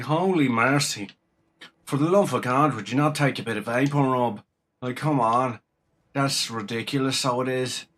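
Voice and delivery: lightly imitating a nasal Dublin accent; playful Dublin accent, holy mercy; mock Dublin accent. Mocking Dubliners chatting away, in a light Dublin accent. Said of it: "chatting away like that there".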